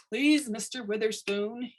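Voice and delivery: slow pleading plea; lightly voiced begging worker; a hint of a desperate plea. A narrator's reading. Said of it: "he begged".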